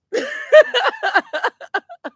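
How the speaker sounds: rising squeal of laughter; high laugh. Real, not acted. Reader cracking up again, high squeal.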